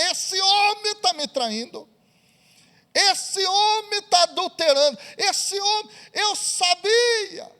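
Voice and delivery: a hint of a scandalised housewife; outraged wife. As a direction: play the betrayed wife, worked up and sure. Wife discovers betrayal, outraged.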